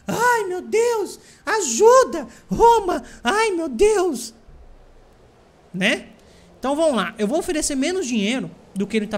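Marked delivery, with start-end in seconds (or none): 0.1-4.4 much higher, louder, slow mock wail, laughing; panicked Greek city. Invaded Greek city cries out to Rome, hammed-up panicked wail. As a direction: ham up a frightened city begging Rome. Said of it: "aí fala".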